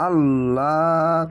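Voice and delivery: very slow, full, heavy আল্লাহ; heavy Allah. Shown as a demonstration. Teacher showing the heavy Allah, slow chant. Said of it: "আল্লাহ লেখাটি মোটা করা হবে".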